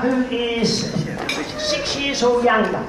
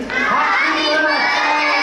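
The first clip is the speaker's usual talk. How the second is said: drawn-out cheer, slowed right down; 4 semitones higher, much slower than usual. Real, not acted. Leads crowd in cheer.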